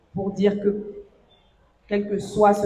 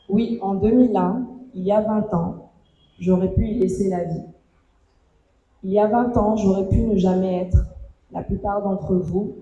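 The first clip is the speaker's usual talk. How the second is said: measured reading aloud, pausing after each phrase; heartfelt reading. Real, not acted. Survivor reads her written thanks to loved ones, heartfelt measured reading. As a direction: read a personal letter with deliberate, spaced-out phrasing.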